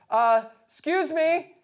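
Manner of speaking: 1 nervous approach. Retold or imitated. Nervously approaching his idol.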